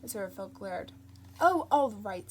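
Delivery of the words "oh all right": wretchedly. Acted. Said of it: "said Crowley wretchedly".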